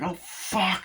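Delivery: high, startled curse; mock alarm. Someone under crossbow fire, mock alarm. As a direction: imitate dodging in a panic.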